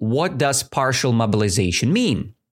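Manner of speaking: ordinary talk, nothing marked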